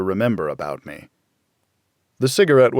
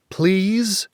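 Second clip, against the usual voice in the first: high pleading please; begging; 9 semitones higher than usual. A narrator's reading. Girl begs the bounty hunter to let her go, pleading high. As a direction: plead with him, voice lifted. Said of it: "she begged".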